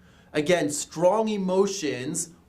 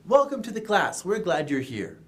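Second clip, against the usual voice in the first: welcoming; 3 semitones higher than usual. Shown as a demonstration. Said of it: "a good area for a welcoming gesture".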